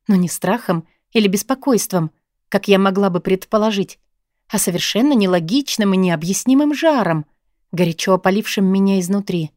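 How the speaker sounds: ordinary delivery, nothing marked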